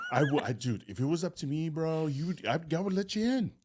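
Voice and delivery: imitating an apologetic bro, pitch climbing; empathetic. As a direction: plead sympathy, rising to a high finish. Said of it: "with empathy in the face he shared".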